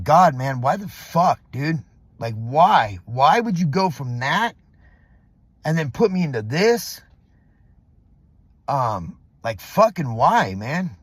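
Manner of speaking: exasperated, punching the whys; pent-up frustration, half let out; angry venting. Retold or imitated. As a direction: vent in disbelief, leaning on the curses. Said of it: "I was fucking angry".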